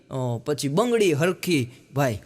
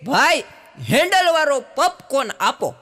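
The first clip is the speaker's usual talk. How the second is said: put-on high, loud girlish order; girl's voice; 7 semitones higher, 4 dB louder than usual. Comedian voicing a city girl ordering popcorn from a cart vendor.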